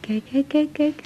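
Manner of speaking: eager hushed kijk kijk; whispered. Acted. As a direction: point it out in a whisper. Whispering at waking baby. (opgewonden fluisteren)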